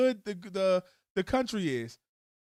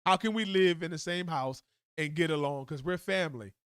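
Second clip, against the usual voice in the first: soothing spouse; 3 semitones lower than usual. Retold or imitated. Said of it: "You say".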